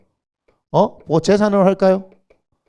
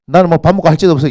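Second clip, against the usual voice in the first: ordinary talk, nothing marked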